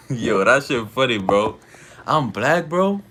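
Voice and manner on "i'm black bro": high squeaky disbelief; incredulous. Real, not acted. Streamer mocking a chat claim, incredulous and high. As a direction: say it like it's absurd. Reacting to racist comment.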